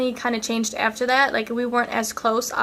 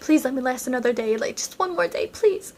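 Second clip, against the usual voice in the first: retold pleading. Retold begging not to be dumped.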